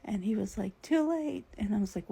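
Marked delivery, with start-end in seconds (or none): 0.8-1.5 high, louder quick quote of dad; imitated alarmed reply. Dad answering the brake reminder, high mock alarm. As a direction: pitch it up like dad caught out.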